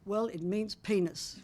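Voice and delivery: slow, calm explanation. Retold or imitated. Stranger explaining a German word to the couple, calmly. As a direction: deliver it calmly and unhurriedly. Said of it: "calmly tells us".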